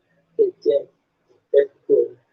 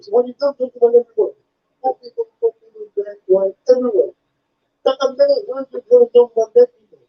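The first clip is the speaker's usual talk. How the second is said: much higher, slurred imitation of a deaf fan's speech; imitated deaf fan; 4 semitones higher than usual. Fan praising the comedian's stuff, high slurred imitation. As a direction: gush like an eager fan who talks fast. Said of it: "He said".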